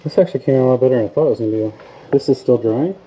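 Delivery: muffled behind a respirator mask; through a face mask. Real, not acted. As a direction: talk with a mask still on. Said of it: "I have my mask on still".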